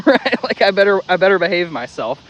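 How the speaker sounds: amused mock dog voice; laughing. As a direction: chuckle through the dog's thought.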